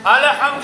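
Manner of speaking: lam in الحم bounced with an added short vowel; mispronounced qalqalah. Shown as a demonstration. Teacher shows pupils the error, bouncing the lam. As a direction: let the lam of الحم echo before the ha. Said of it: "غلط ہو جائے گا".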